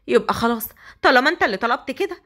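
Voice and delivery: put-on frightened young bride. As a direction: push him off, scared and protesting. Hasnaa continues protesting.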